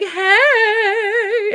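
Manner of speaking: high, loud, chipper "Hey"; loud morning greeting. Retold or imitated. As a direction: bounce into the car way too awake. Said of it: "And I'd be like".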